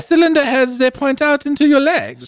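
high, hammed-up announcer voice; mock announcer. Teasing the BMW headline in a hammed-up announcer voice. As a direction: sell it like a grand reveal.

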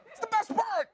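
exasperated emphasis. Real, not acted. Exasperated repeat of point.

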